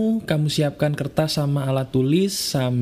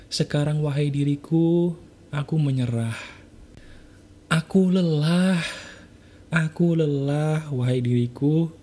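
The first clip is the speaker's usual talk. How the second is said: guided affirmation. Acted. Leads a spoken self-confession.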